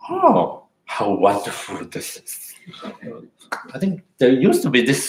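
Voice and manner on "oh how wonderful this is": delighted exclamation. Shown as a demonstration. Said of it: "I actually can say".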